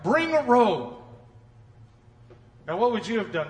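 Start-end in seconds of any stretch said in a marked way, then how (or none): 0.0-0.9 mock yell. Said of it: "he yells at all the servants".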